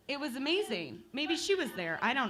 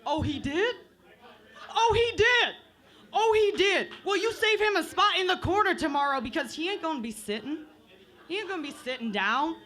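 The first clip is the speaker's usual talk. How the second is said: strict parent impression; 3 semitones higher, 3 dB louder than usual. Comic imitating a strict parent on the phone, hammed up. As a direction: ham up the parent who'll punish the kid. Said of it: "I'm gonna do a little impression for you".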